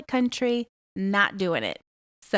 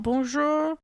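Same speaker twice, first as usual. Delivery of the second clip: Bonjour sung out higher, then the request; polite shop greeting; 3 semitones higher than usual. Retold or imitated. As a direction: greet warmly before you ask. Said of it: "When you go into a restaurant".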